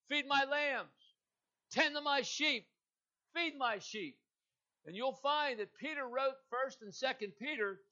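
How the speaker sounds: full-force pulpit preaching. Acted. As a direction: drive the sermon home with rising fervour.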